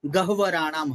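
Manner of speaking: "गह्वराणाम" with h first, then a full v; h before v. Shown as a demonstration. Teacher explaining sound order to a student, careful "गह्वराणाम". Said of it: "ह पहले है और व पूर्ण है".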